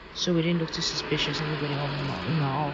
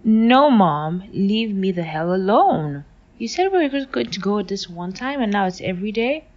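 put-on loud, fed-up teen shouting back at mom; exasperated refusal; 3 semitones higher, 6 dB louder than usual. Daughter yelling at mom about church, loud and fed up. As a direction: push back hard, sick of it.

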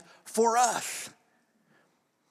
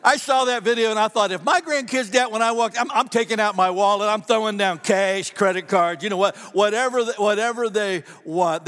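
louder, eager preacher's riff; fired-up preaching; 3 semitones higher, 5 dB louder than usual. Acted. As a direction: get worked up about spoiling the grandkids. Preacher fired up about grandkids.

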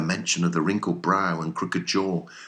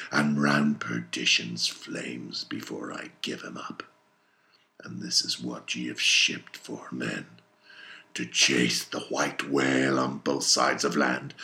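low, lowered-voice captain; Ahab, grim resolve; 5 semitones lower than usual. Acted. Ahab tells his men what they shipped for, grim. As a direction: let the vow sink to grim determination. Ahab's vow sinks low.

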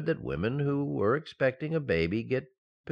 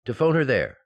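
excited; 4 semitones lower, 4 dB louder than usual. Acted. Excited husband rushing off.

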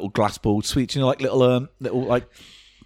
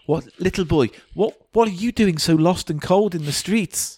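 kind gentleman; 9 semitones higher than usual. Acted. Kindly gent voice.

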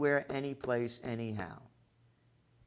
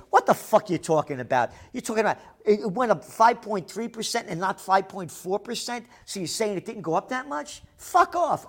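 mock outburst; 4 semitones higher, 3 dB louder than usual. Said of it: "I shouldn't say".

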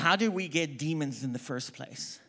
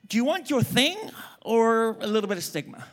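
raised challenge; 3 semitones higher than usual. Real, not acted. Preacher challenging the congregation.

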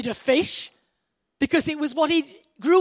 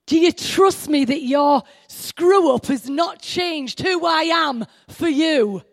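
impassioned preaching; 3 semitones higher than usual. Retold or imitated. Preacher voices what Jesus was asking Peter, impassioned. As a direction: press each word home with conviction.

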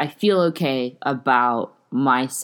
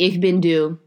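put-on German accent; 3 semitones higher, 4 dB louder than usual. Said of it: "My German accent was probably shit".

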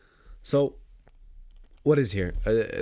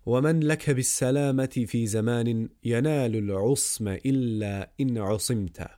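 rapid verse recitation; much faster than usual. Acted. Recites Arabic verse of poem.

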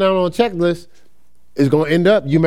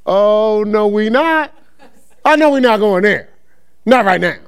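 mock defiant face. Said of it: "my face is like".

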